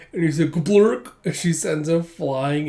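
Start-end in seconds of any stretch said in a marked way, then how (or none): 0.5-1.1 raised, loud "Gblurk!"; comic impact gurgle. Retold or imitated. Thug hit by palm thrust, mock impact noise. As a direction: imitate a man taking a blow. Voices the struck man's sound.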